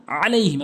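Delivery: আলাইহিম with pressure on the opening ayn; pressed ayn. Shown as a demonstration. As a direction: lean on the throat sound starting আলাইহিম. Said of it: "আপনি চাপ দিয়ে বলুন".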